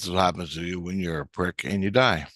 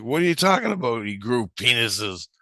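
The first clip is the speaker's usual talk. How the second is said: incredulous; 3 semitones higher than usual. Retold or imitated. Man questions the girl's claim, incredulous. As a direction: retell baffled disbelief. Retold baffled reply to girl.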